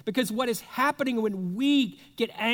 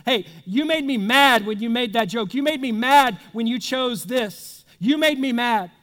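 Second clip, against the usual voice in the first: louder, hammered blame on mad; loud accusation; 6 dB louder than usual. Retold or imitated. At a spouse after the party joke, a loud blaming accusation. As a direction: throw the blame at them, louder. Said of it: "See what happens when somebody says".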